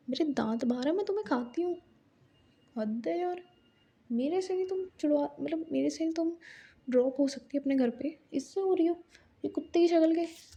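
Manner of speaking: high, indignant rant, words tumbling out; mock angry rant. Tanvi rants at Mahi for picking her friend, pitched high and indignant. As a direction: fume like a jilted rival.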